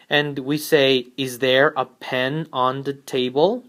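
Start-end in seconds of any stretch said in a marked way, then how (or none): 1.2-3.6 "Is there a pen on the table?" rising on "table"; rising question intonation. Shown as a demonstration. Teacher showing learners the rise at the end of a question. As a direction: let the voice climb on "table". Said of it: "intonation here is important, and we rise the intonation at the end".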